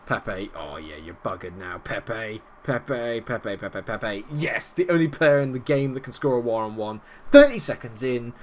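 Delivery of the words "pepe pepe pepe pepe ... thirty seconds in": high, loud goal celebration; excited goal yell. Real, not acted. Fan yelling at his screen as his team scores, excited. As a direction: roar it as the ball goes in.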